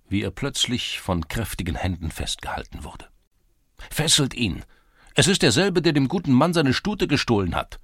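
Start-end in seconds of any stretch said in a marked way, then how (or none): 3.9-7.8 angry accusing shout. A narrator's reading. Lads accuse the thief.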